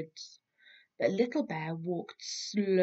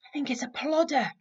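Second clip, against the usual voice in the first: Little Bear guessing; 8 semitones higher, 4 dB louder, faster than usual. Acted. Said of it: "said Little Bear".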